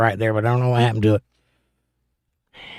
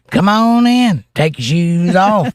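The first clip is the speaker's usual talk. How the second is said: excited welcome; 8 semitones higher, 5 dB louder, slower than usual. Real, not acted. Welcoming viewer into the stream.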